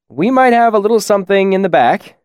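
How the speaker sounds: lightly voiced friendly innkeeper; servile, eager to please. A narrator's reading.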